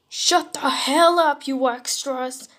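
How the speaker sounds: hammed-up Bakugo yell; angry yell. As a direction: tell the extras off at full volume. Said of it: "Bakugo yelled".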